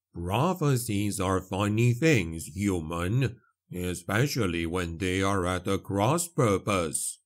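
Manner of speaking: measured, unhurried character voice; solemn explanation, lightly in character; lightly voiced priest. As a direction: weigh each phrase gravely.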